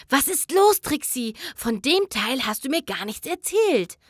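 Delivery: panicked hushed question; whispered fear. Acted. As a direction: whisper it urgently, frightened. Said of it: "flüsterte sie panisch". (panisch geflüstert)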